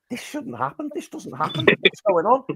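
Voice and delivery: can't believe your eyes; disbelieving excitement. Retold or imitated. Fan watching the final, high excited disbelief. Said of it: "I was just thinking".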